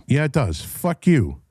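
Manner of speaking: normal talking voice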